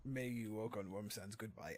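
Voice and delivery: put-on slow, drawn-out French Khajiit accent. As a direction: play a cat-folk merchant with a French Khajiit accent, taking his time. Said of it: "I do the French Khajiit accent again".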